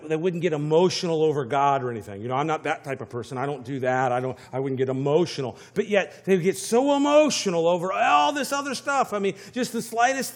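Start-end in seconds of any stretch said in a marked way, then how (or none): 0.1-5.6 mock dismissive voice. Mocking people who deny emotion.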